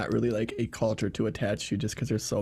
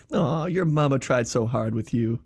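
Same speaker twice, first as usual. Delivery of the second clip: mock-pitying Southern sweetness; sweetly condescending. Being a real dick politely, sweetly condescending Southern voice. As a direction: pity them sweetly, as a veiled insult. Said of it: "just being a real dick".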